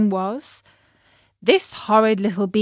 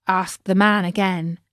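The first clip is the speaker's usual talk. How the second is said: ordinary delivery, nothing marked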